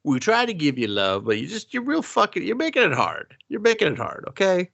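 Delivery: high, whiny exasperated pleading; mock disappointed parent. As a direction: plead with the daughter, hammed up. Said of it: "what smells like disappointed adopted daughter".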